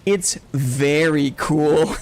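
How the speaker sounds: slow, measured imitation of mom saying "very cool"; a hint of a patient mother; slow mom reply. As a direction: mom politely rephrasing, drawn out. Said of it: "And she'd be like".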